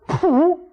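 sudden "pu" noise; imitated plop. Storyteller mimics the egg popping out, imitated plop.

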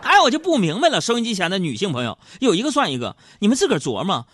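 high, loud teasing rant; mock scolding. Host teasingly scolding women listeners about makeup, high and loud. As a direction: jab at the listeners playfully.

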